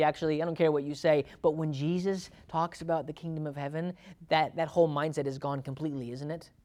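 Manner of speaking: ordinary talk, nothing marked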